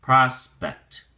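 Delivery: prospect with a clear c t at the end; prospect, both c and t sounded; crisp final ct. Shown as a demonstration. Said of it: "pronounce the C T sound clearly".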